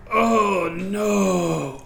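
a groan of dismay in a lightly voiced Pock; mild cry of dismay. A narrator's reading. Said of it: "You hear".

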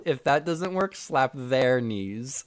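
"their" stressed, drawn out slowly; emphatic punchline. Real, not acted. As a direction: lean on "their" and stretch the line. Re-reads advice stressing changed word.

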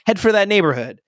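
mild narrated shout. A narrator's reading. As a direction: call out urgently without fully shouting. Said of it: "Danny shouted".

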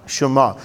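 Shema said as "shuh-MAH", stress on the last syllable; Hebrew word said slowly. Shown as a demonstration. Pastor teaching the congregation the Hebrew word, careful pronunciation. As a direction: model "Shema" clearly for the room to repeat. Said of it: "Say shema".

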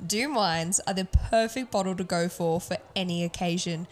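upbeat, measured podcast sponsor read. Real, not acted.

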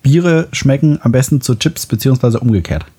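talking while chewing chips; crunching chips. Real, not acted. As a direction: chips crunching between words. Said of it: "das knackt auch so richtig schön".

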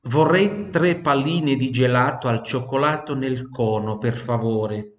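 clear, measured teacher model; model sentence. Shown as a demonstration. Teacher models full sentence for students to repeat. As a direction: say it cleanly for the class to repeat. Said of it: "Ripete ad alta voce, vai, dopo di me".

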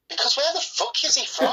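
high, laughing outburst; cracking up at the absurdity; laughing disbelief. Real, not acted. Podcast host to co-hosts about Caleb's accent, laughing.

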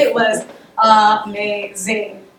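dry sarcastic "amazing", slow. Real, not acted. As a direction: say it slowly, meaning the opposite. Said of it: "Uh, amazingly bad at first".

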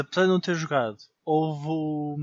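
ordinary delivery

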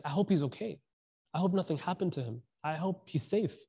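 soft, caring acted voice; mild, tender concern; gentle concern. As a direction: voice a quiet worry for a friend. Prophet's gentle concern for missing companion.

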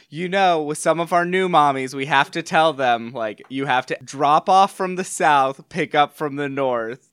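sing-song talking down to a newcomer; condescending. Retold or imitated. Crossing guard instructing a new mommy at carpool, condescending. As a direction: patronize them, pitched a little up. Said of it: "It's just so perfectly condescending".

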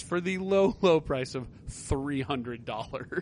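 mock bargain pitch, drawn-out price; slow down on the price with heavy irony; sarcastic. Real, not acted. Host reading out a steep launch price to co-host, sarcastic. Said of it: "Is that sarcasm?".

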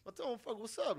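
high, loud retold comeback; mock challenge. Retelling his dare to a ghost, loud mock challenge. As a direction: call out the ghost for a fight.

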